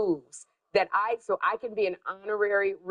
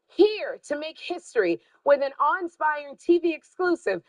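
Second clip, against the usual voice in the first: big TV show introduction; announcer; 5 semitones higher than usual. Acted. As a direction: hype up the act.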